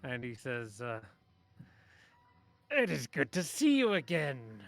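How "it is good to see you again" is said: loud, higher-pitched character voice with falling phrases; a big, projected greeting in a put-on voice; Maxil Dinar. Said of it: "hear the voice of Maxil Dinar".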